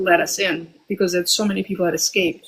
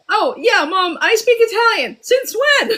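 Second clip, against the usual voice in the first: put-on higher, laughing kid bragging; mocking her younger self; 12 semitones higher than usual. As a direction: play the eager girl, giggling. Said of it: "I was like".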